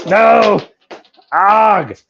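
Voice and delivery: high, loud sudden no; dismayed cry. Real, not acted. As the casting goes wrong, a high loud cry. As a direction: cry out as it slips away.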